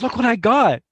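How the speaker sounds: imitating a kid thrilled with her gift; excited little sister. Little sister shows off her new tape, imitated excitedly. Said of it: "she was so excited".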